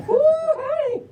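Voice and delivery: high, whooping Southern holler; Southern drawl. Acted. Reader cheering the pups on, high Southern drawl whoop. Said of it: "but in a Southern drawl".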